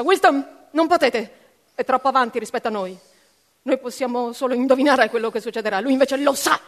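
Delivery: gridato forte, implorante; grido disperato. A narrator's reading. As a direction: Anita grida per fermare Wisdom. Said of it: "Anita gridò". (grido forte e supplichevole)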